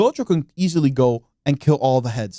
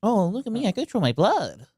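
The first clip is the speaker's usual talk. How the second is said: mock boastful Kamo; 7 semitones higher, 3 dB quieter than usual. Mocking Noritoshi Kamo's boast.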